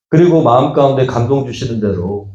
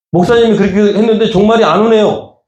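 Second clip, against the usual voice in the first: mock complaint; 8 semitones higher than usual. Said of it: "저한테 따지세요".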